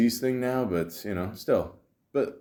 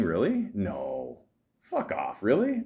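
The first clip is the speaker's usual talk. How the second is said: incredulous; slower than usual. Real, not acted. Disbelief at PG-13 rating.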